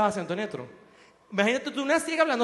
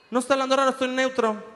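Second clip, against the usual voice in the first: put-on neutral Latin accent. Media personality denying they talk strangely, mock neutral accent. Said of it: "gente que empieza a hablar como acento neutro".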